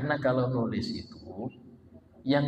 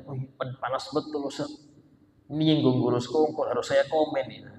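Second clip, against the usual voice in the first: imitating a heated netizen, ending in a shout; hammed-up indignant shout; mock outraged commenter. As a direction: play the hothead who must comment, voice rising to a yell. Imitating provoked commenter on sosmed.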